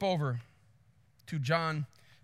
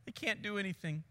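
worried tourist; 11 dB quieter than usual. Retold or imitated. Tourist watching the buffalo calf under attack, soft and helpless. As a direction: imitate a tourist softly, voice held back. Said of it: "the tourist saying".

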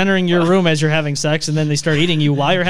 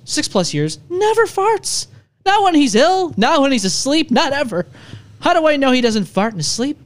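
high, slow read-aloud voice; reading a letter aloud; 6 semitones higher than usual. Acted. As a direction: read it out in a higher, slower put-on voice. Reads out a listener's letter.

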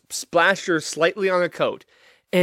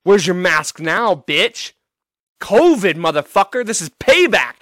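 imagined angry outburst; 6 dB louder than usual. Pretend. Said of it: "Been like".

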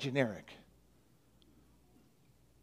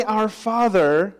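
slow reverent prayer; 4 semitones higher, slower than usual. Shown as a demonstration. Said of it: "When you say".

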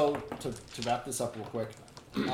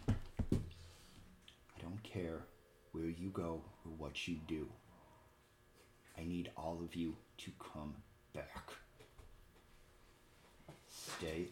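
very slow, low, hushed plea; soft, secret and earnest; intimate whisper; 5 semitones lower, 12 dB quieter, slower than usual. Acted. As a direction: whisper it for one listener only, with long pauses. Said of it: "She is whispering to you".

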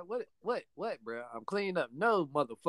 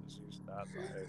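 mock serious; 11 semitones higher, 18 dB quieter, slower than usual. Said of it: "you hear how serious my voice is".

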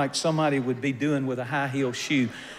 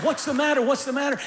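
high, loud call of alarm; alarmed stewardess; 9 semitones higher, 4 dB louder, faster than usual. Retold or imitated. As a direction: rush in asking what's wrong, much higher and louder. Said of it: "the stewardess came running and said".

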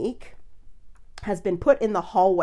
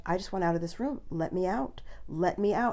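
imitating a matter-of-fact, composed request; totally calm; 4 dB quieter than usual. Woman retold asking a producer to let her out, totally calm. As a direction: ask evenly, without crying or screaming. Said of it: "she's totally calm".

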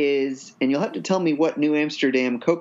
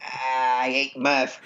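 put-on Boston accent; 4 semitones lower, slower than usual. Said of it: "our best Boston accented".

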